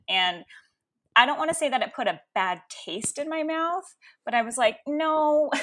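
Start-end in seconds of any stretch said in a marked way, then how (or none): 4.9-5.5 high, loud mock-protest "no"; retold emphatic refusal. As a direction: balk loudly, half laughing at it. Acted refusal of her mother's Reiki.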